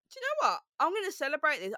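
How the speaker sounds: high-pitched burst of decision, settling down; sudden resolve. Retold or imitated. Speaker retells deciding to celebrate her hometown, suddenly resolved. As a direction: launch high into a bold declaration.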